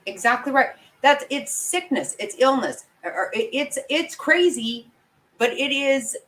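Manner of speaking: pushing every point, worked up and high; heated rant. Real, not acted. Viewer ranting that he knew wrong from right, heated and high.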